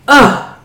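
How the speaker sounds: short real "ugh" of disgust; grossed-out ugh; disgusted groan. Real, not acted. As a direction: groan in revulsion. Disgusted by mukbang eating noises.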